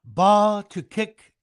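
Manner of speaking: slow, booming stadium announcer voice; imitating PA announcer. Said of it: "he would say".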